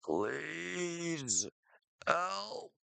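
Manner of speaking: high, breathless pleading, gasping for air; desperate plea for help. Acted. Chris alone after a nightmare, desperate high plea. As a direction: beg for help like you're suffocating.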